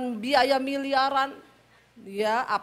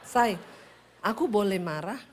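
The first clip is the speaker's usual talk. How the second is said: mock-meek, lower-pitched husband; politely asking permission; 4 semitones lower than usual. Solo husband asking his wife's leave to get angry, mild and polite. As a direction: ask timidly to be allowed anger. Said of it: "marah juga dia permisi".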